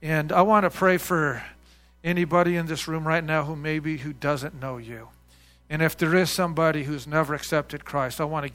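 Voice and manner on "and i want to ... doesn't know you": earnest, measured prayer voice. Real, not acted. Pastor leading the congregation in closing prayer, earnest. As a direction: pray aloud to God, steady and sincere.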